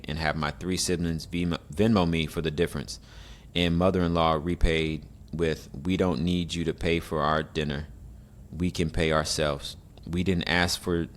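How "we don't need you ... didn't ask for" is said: reading aloud haltingly. Shown as a demonstration. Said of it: "I can read. This person can't".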